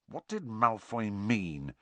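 slow, soft mutter. A narrator's reading. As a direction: ask a friend under your breath. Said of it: "Harry muttered to Ron".

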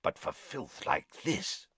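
Moody whispering scornfully; softly. A narrator's reading. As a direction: hiss it under the breath. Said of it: "Moody said softly".

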